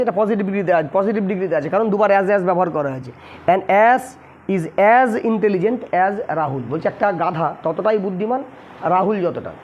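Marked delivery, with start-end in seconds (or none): 3.5-6.6 very slow, word by word dictation. Shown as a demonstration. Teacher dictating the English sentence to students, very slow. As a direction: spell it out slowly for students to copy down. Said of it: "teacher reads English sentence aloud".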